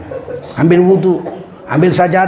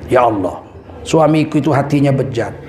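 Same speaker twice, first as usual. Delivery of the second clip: mock earnest prayer. Wife's prayer over cooking.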